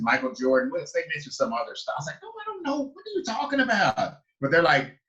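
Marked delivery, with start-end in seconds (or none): 2.2-4.2 startled and high, confused; baffled high protest. Retold or imitated. Asked where in Africa, a high baffled reply. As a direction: play lost and bewildered.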